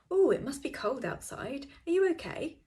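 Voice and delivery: fussing date. Retold or imitated. Date fussing over a cold man, in a high mock-caring voice. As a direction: coo over him like a worried mother.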